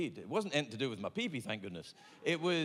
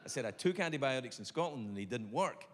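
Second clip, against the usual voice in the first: deep doctor voice; 6 semitones lower than usual. Retold or imitated. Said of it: "He went".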